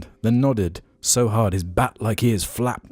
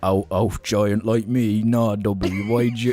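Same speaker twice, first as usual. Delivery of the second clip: lightly voiced Hagrid. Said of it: "doing the voices and everything".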